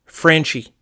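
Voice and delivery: drawn-out folksy American put-down; slow, insistent interruption. Acted. American target silencing the English caller, slow and firm. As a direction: cut in and spell it out slowly.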